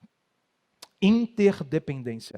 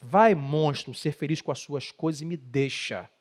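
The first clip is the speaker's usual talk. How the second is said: mocking wife again; 3 semitones lower than usual. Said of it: "Assim que a mulher fala".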